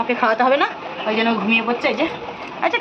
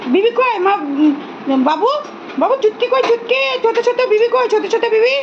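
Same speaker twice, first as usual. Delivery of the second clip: very high cooing sing-song; fond high pet voice; 9 semitones higher than usual. Real, not acted. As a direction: coo over the chicks, pitched way up. Searching for chicks, baby talk.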